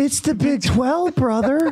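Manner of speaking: mock, very high, talking-down condescending tone. Repeating to Amal how he started lecturing you, imitating a condescending tone. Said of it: "he did the condescending".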